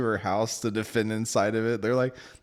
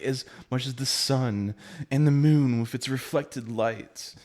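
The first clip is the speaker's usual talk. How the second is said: lofty romantic; 4 semitones higher, 4 dB louder than usual. Retold or imitated. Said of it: "it's like".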